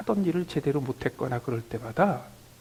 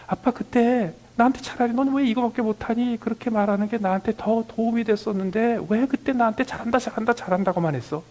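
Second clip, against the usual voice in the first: imitating grown son; 7 semitones higher, 5 dB louder than usual. Grown son complains to his father about praise, higher and louder. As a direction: play a grown child whining at his dad. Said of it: "아빠한테 불평하는".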